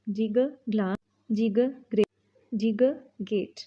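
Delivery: ग clipped and stressed before each word; phonics drill g. Shown as a demonstration. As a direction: hit ग then the word. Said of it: "जी का sound है ग".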